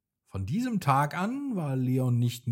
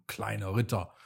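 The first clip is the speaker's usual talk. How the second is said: a touch of scorn, spoken down to him; the sun guardian mocks the little knight, lightly scornful; mocking; 4 semitones lower, 4 dB quieter, faster than usual. Sneering little title, understated. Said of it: "spottete er".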